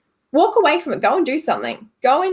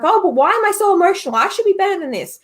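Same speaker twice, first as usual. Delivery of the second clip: higher, mildly flustered self-reproach; feeling silly; 7 semitones higher, faster than usual. Acted. Speaker voicing someone who feels like a child, mildly self-reproachful. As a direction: lightly act out scolding yourself. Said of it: "you feel silly because you're like".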